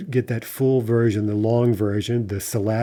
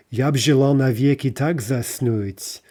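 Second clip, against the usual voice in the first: "Я б желал навеки так заснуть" read as verse, "б" fused onto "Я"; poem line read aloud. Shown as a demonstration. Teacher reading a Lermontov line aloud as verse. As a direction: recite the Lermontov line in metre. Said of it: "right, from Lermontov's".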